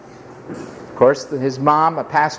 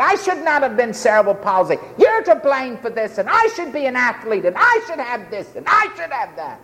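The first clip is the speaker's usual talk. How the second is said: raised-pitch railing at God; bitter accusation; 6 semitones higher than usual. Retold or imitated. Preacher acting out a bitter man blaming God, indignant. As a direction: pile up the grievances, higher-pitched and resentful. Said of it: "And he shook his fist at God".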